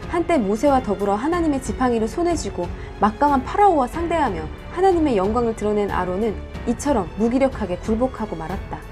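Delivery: ordinary delivery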